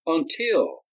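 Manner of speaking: resume over the crowd; repeated Until, calmer. A narrator's reading. Darius resuming after silencing the crowd, deliberate. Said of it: "held up his free hand".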